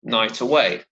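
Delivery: "night away" joined, final T of "night" starting "away"; "night away" as nigh-taway, stressed on "night" and "way"; linked words. Shown as a demonstration. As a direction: run "night" straight into "away", no gap. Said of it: "there's a liaison here".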